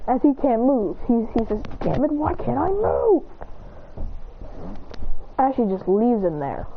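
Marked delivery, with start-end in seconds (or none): 1.8-3.2 higher, rising frustrated question; acted frustration. He can't move after a headbutt, acted frustration. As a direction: strain upward in mild exasperation.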